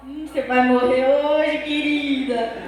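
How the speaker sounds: a hint of a smug, menacing older brother; a brother gloating that his sister is in trouble; teasing brother. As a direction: tease her with mock menace. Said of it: "ele fica olhando com aquela cara assim".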